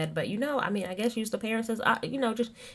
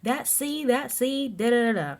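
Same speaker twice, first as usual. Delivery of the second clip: high-pitched upset Teresa; 9 semitones higher than usual. Retold or imitated. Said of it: "Teresa was like".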